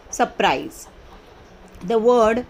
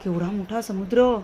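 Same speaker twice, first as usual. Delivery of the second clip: surprised. Shown as a demonstration. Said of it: "आश्चर्य झालेला आहे".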